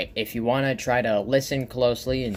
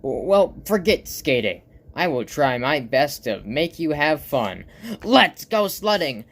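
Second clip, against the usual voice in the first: excited cartoon pal, building to a loud high shout; Stickmon; 4 semitones higher, 4 dB louder than usual. Stickmon cheers up his sad friend, excited and building. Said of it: "throws his skates to the side and goes".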